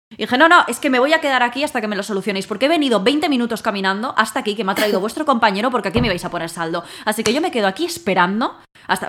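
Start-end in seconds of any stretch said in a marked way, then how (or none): 0.4-4.5 higher, louder, fast stubborn refusal; making a scene. Retold or imitated. Refusing to leave the shop until they fix it, loud and fast. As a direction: insist loudly you're staying put. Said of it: "monté un cirio".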